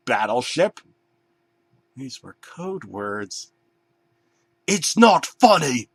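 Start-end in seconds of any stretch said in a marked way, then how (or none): 4.7-5.9 high, louder put-on bear voice; upset bear voice. Bear protesting at laughing bananas, high and whiny. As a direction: whine it like a hurt bear. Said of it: "the bear said again".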